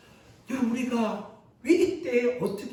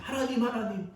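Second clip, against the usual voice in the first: rising into a higher, louder, half-shouted complaint; prophet's indignant protest, pitched high and loud; protesting to God; 6 semitones higher, 4 dB louder than usual. Acted. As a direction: argue with God, building to a shout. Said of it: "하나님께 이렇게 따집니다".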